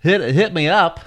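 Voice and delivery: lightly put-on radio announcer. Host appealing to local listeners on air, in a mild radio voice. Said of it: "With a radio voice like that".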